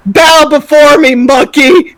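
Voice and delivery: lightly voiced domineering monster; dark lord. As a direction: command submission, slow and loud. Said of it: "Godzilla is screaming at Kong".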